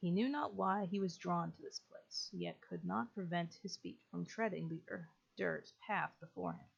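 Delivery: measured storybook read of the game text; story narration. A narrator's reading. Gamer reading the chapter intro as a storyteller. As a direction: read it like the opening of a tale.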